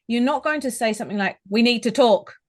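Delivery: loud, blunt and aggressive; stern, confrontational demand. Shown as a demonstration. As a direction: hit it hard like a demand. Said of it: "which sounds very aggressive".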